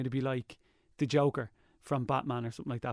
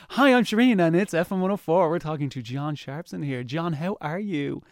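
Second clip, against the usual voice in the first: mock-bubbly radio-host cheer; hammed-up chirpy DJ greeting; upbeat radio host; 2 semitones higher, 5 dB louder than usual. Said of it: "But now you're like".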